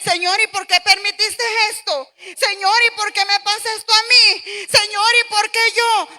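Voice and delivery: whining lament. Retold or imitated. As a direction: imitate a whiny plea to God. Acted whining prayer to God.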